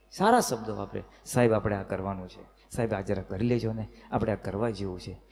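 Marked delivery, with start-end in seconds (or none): 1.2-5.2 low, gentle humble request; a wife politely coaxing her husband, humble and lower. Retold or imitated. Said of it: "વિનયવાળો tone હોય".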